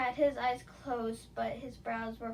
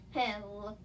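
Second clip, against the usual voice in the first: cocky; 3 dB quieter than usual. Acted. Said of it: "he cockily smirked".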